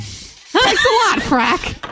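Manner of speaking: dry sarcastic thanks, drawn out; slow mock-wounded thanks. Mock offended at being Simon.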